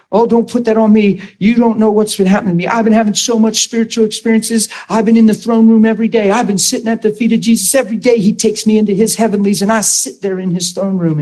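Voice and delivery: imitating a defensive lady, slightly heated and quick; indignant retold rant. Pastor mimics offended caller, mildly indignant and hurried. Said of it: "angry while she's talking".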